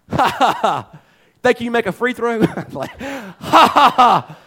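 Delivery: mocking laugh. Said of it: "He laughs at me".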